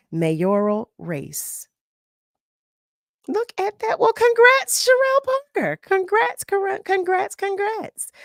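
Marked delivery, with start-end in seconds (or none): 3.3-8.1 very high, squealing cheers of congratulation; excited congrats. Real, not acted. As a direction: cheer her win at the top of your voice. Host cheers new mayor's win.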